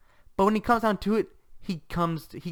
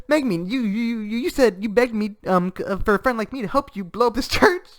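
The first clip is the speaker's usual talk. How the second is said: Yun Yun; 9 semitones higher, 6 dB louder than usual. Retold or imitated. Acts out flustered indignant protest.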